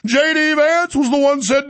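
lightly put-on voice of a scornful pundit; a hint of mock-preachy scorn; mocking opponent impression. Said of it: "I also love how he singles out J D Vance".

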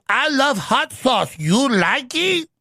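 high, slow pandering put-on Hispanic accent; mock Hispanic accent. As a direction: imitate a politician faking a Hispanic accent. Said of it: "Hillary does that. She goes".

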